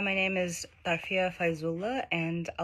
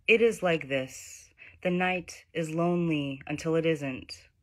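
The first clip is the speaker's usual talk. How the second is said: measured poet's recital, phrase by phrase; poetry reading; 2 semitones higher than usual. Acted. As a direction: recite the poem with deliberate pauses. Reads own poem aloud.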